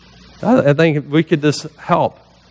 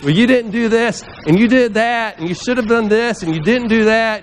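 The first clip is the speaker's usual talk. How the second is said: higher-pitched rattled-off list of accusations; mock accusations; 5 semitones higher than usual. People coming at you as if on trial, mock accusing. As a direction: imitate people piling on the blame. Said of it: "People coming at you".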